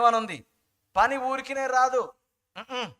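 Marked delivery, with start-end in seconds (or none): 2.6-2.9 scolding parent. Retold or imitated. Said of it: "అంటే".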